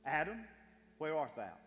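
loud, harsh call of Adam's name; angry summons to a hiding man; condemning shout. Shown as a demonstration. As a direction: bark it out as a stern accusation. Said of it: "God did not scream that in condemnation".

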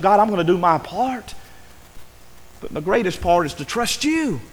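pleading prayer. Retold or imitated. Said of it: "And I begged God".

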